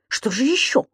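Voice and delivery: small, anxious query rising at the end; hesitant, worried question; dreading question. A narrator's reading. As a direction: ask timidly what else is coming. Lodger dreads what else there is.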